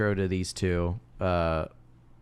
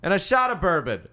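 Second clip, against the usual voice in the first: cowboy; 10 semitones higher, 5 dB louder than usual. Retold or imitated. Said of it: "there's one scene where it's like".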